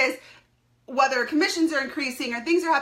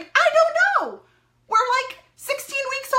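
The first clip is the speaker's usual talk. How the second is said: exasperated; 12 semitones higher than usual. Real, not acted. Exasperated high answer.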